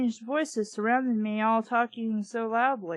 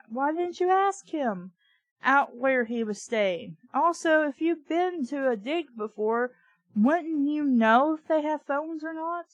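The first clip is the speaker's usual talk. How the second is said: incredulous questioning; 4 semitones higher than usual. Real, not acted. Arguing with the narrator.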